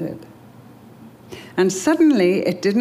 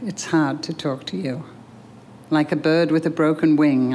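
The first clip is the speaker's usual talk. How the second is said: closing prayer. Acted. Reader leading listeners in prayer after the story, earnest prayer. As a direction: pray it aloud for the listeners.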